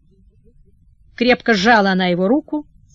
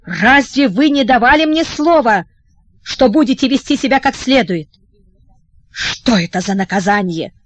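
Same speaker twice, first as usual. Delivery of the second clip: reproachful. Acted. Wife scolds her husband.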